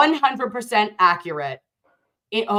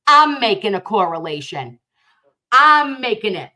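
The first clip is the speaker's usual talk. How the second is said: louder, punching I'm at the start of each line; loud, defiant insistence; emphatic declaration; 6 dB louder than usual. Real, not acted. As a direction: plant your feet and own the claim. Defiant claim against other creators.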